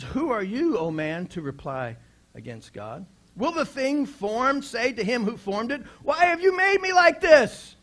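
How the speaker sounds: starts level, then a high, loud cry on the last question; scripture rising from a question to a shouted complaint; preached build to a shout. Acted. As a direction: build the verse up until the final question rings out high and loud.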